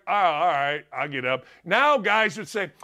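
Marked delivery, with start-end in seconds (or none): 0.1-1.5 put-on sulky kid reply. Kid answering his dad after a fall, low and grudging. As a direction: grumble it like a scolded kid. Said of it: "I'm like".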